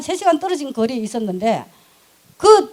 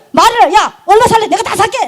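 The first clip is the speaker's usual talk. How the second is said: retold challenge; 6 semitones higher, 4 dB louder than usual.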